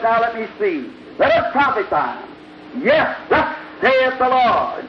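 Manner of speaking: loud, slow mock prophesying; mock prophet. Preacher mocking Zedekiah the paid prophet, loud and slow. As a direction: ham up a pompous hired prophet intoning.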